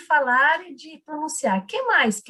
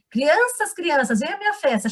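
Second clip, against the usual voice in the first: put-on high singsong child's storytelling; a teacher copying a child's story voice; imitating a child reader; 5 semitones higher than usual. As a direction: mimic the little girl's reading cadence. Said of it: "ela fala assim".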